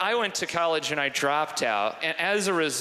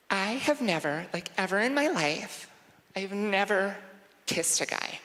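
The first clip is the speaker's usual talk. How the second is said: put-on high, hushed girl confession; shy confession; 6 semitones higher than usual. Girl confessing to her friend she never kissed, hushed. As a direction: confide it, dropping to a whisper.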